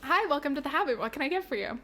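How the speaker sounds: bright cashier greeting; cashier role-play. Pretend. On a dare, cashier greets friend playing customer. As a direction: play the eager counter cashier. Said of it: "If you dare me".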